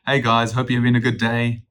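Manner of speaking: bright smiling phone voice; smiling friendly greeting. Shown as a demonstration. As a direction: greet them with a smile in your voice. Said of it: "it sounds nice, it sounds friendly".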